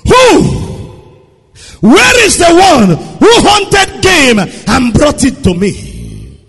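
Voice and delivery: a touch of trembling alarm. Acted. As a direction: ask as if shaken, slowly. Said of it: "Isaac trembled exceedingly".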